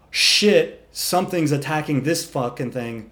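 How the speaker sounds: loud high shout of a spooked horse; panicked horse yell. Retold or imitated. Horses panicking on the trail, high loud alarmed shout. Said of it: "all the other horses go".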